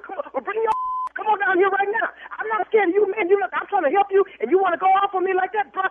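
fired up, daring him to come; angry. Real, not acted. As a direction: owner losing his temper at the threatening caller. Owner pushed to fury on call.

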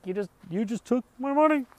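high, incredulous complaint; Jerry stunned at losing money; imitating indignant Jerry.

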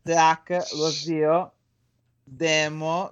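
put-on slow, drawled Milanese accent; hammed-up Milanese accent. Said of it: "fallo con l'accento milanese".

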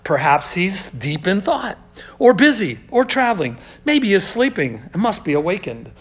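mock-earnest suggestions with pauses; taunting. Elijah trash talking the prophets of Baal, taunting. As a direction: toy with them, offering each excuse in turn. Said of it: "he starts trash talking these guys".

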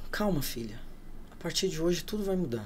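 soft, gentle reassurance; calming voice. Retold or imitated. Unknown voice comforting a crying woman, soft and calming. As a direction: imitate a quiet consoling voice. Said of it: "veio uma voz assim".

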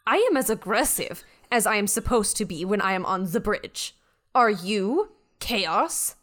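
measured, self-assured ship's mind; a hint of haughty superiority; lightly voiced imperious Beth. Beth schooling the crew on the bridge, lightly haughty.

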